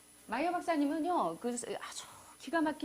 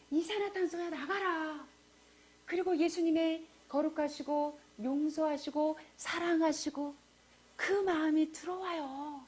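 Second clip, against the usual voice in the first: slow solemn command; 2 semitones higher, slower than usual. Acted. Slow solemn breathing exhortation.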